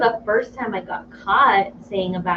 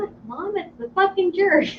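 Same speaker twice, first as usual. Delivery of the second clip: put-on excited toddler; 9 semitones higher, 4 dB quieter than usual.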